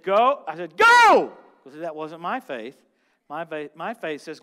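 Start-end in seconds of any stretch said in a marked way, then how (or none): 0.0-0.4 loud, clipped order to go; sharp command. Retold or imitated. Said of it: "I screamed this at this lady". 0.8-1.3 much higher, much louder yelled "Go!"; screamed command. Retold or imitated. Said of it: "I screamed this at this lady".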